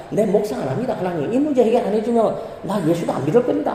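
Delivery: hammed-up ultimatum to God; bluffing, insistent plea; mock threatening prayer. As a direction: threaten lightly, as if bargaining in prayer. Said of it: "막 협박하듯이 기도합니다".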